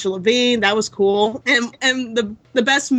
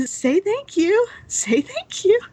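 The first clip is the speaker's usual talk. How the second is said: put-on prompting a child; 11 semitones higher, slower than usual. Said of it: "And I'm like".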